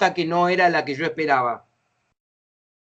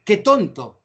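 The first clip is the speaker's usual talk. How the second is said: mildly raised, exclaimed jab; higher-pitched mock exclamation; exclaimed insult; 4 semitones higher, slower than usual. Shown as a demonstration. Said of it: "el signo de admiración que decimos".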